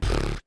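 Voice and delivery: low, soft "pfft"; imitated puff noise. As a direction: puff air briefly through the lips. Imitates the family at the baby.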